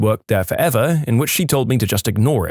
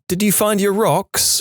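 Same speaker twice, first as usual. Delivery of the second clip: lightly voiced girlfriend, high pitch; a hint of a high female character; girlfriend talking in sleep; 10 semitones higher than usual. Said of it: "My girl woke up one night and said".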